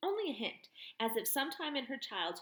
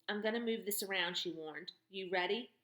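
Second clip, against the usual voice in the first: firm clear commands; brisk commanding woman. Acted. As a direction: direct like a field medic. Woman examines foot.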